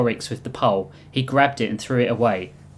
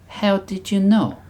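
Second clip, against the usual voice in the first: put-on higher-pitched, loosely Russian accent; vaguely Russian accent; 6 semitones higher than usual. The Reap questions who sent them, higher Russian accent. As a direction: ask it in a raised voice with a Russian accent. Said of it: "thick veil accent that was vaguely Russian".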